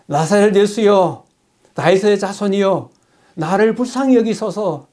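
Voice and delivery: 자비를 구하며 천천히 높여 외치는 소리; loud cry. Retold or imitated. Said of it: "큰 소리로". (큰 소리로 천천히 외치듯)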